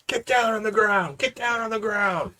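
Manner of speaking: barked order to get down; shouted command. Acted. Player shouting at guards to get down, commanding. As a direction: yell it at the guards. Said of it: "and I'll tell 'em".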